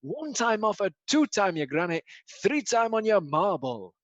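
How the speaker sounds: hyped club DJ shout-outs; DJ announcer voice. Pretend. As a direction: hype the crowd like a club DJ. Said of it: "it's me announcer voice".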